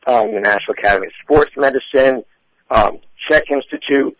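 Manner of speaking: slightly hoarse, losing voice. Real, not acted. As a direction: talk through a tired, hoarse throat. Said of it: "I'm losing my voice a bit today".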